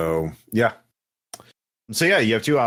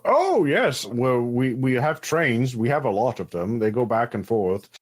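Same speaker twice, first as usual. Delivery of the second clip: Hunby. Acted. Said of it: "having a moment with this accent".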